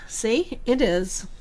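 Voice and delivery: through a yawn; sleepy yawning talk. Real, not acted. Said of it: "Excuse me while I yawn".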